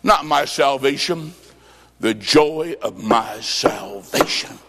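dropped low and slow; tender plea. Retold or imitated.

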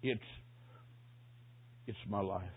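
halting, low and very soft; weak dying man, long gaps between words; hoarse whisper. Retold or imitated. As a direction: struggle to get each word out. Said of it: "Then a hoarse whisper".

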